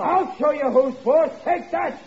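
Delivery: high, drawn-out mock threat, then a blow; hammed-up punishing father; sham scolding. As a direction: show off authority for the eavesdropper. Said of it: "I'll hit the desk here with my belt".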